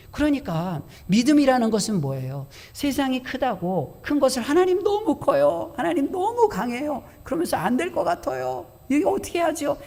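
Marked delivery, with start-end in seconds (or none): 4.4-9.8 high, plaintive complaint of feeling small; timid whining. Retold or imitated. Preacher mimicking a believer who feels the world is too big, whining. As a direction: whimper it to God like a cornered child.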